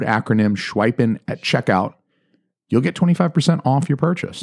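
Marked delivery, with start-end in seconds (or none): 2.7-4.4 secret whispered sales pitch. Acted. Host whispers the discount offer to his listeners in a hushed voice.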